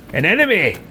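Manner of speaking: very high, indignant imperious cries; haughty battle leader. Acted. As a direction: order useless servants about at a high pitch.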